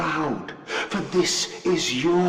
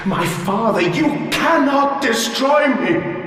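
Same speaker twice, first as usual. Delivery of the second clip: desperate pleading. Acted. Dying machine pleads with its creator.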